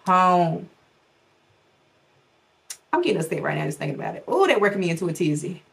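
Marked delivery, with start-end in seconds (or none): 0.0-0.7 mock crying. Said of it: "me crying and saying".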